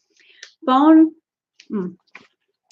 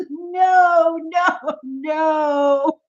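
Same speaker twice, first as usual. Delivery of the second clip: laughing refusal; 6 semitones higher, much slower than usual. Real, not acted. Rejecting sour candy.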